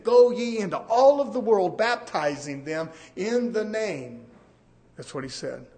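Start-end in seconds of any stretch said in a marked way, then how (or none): 0.0-4.3 scripture proclaimed loud, then slowed on the name; proclaiming Jesus' words. Shown as a demonstration. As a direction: ring out the command from the pulpit.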